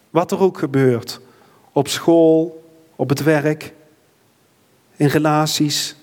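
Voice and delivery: earnest, reverent prayer voice; closing prayer. Acted. Pastor prays for the church after the sermon, reverent. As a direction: pray aloud for the whole congregation.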